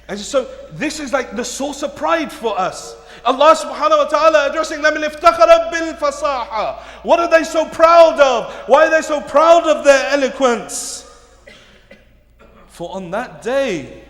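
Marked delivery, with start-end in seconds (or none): 0.1-11.0 forceful sermon delivery, projected and driving; loud, dramatic retelling from the pulpit; impassioned preaching. Acted. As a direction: preach it out to the whole congregation.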